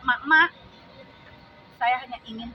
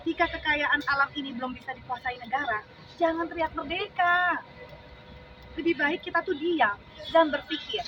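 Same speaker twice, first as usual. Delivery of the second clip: deliberate declaiming that lifts toward the refrain; poem recitation. Acted. Reciting a poem about national wealth to supporters, declamatory. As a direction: recite protest verse, stressing each phrase.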